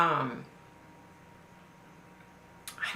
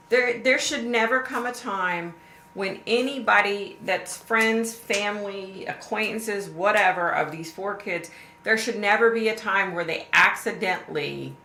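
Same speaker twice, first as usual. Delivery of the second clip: higher and louder, pressing each word; impassioned insistence; 5 semitones higher, 4 dB louder than usual. Real, not acted. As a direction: insist with rising emotion. Insisting photos never be seen.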